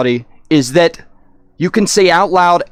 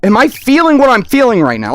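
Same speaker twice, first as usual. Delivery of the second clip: confused; 6 semitones higher than usual. Retold or imitated. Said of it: "so confused".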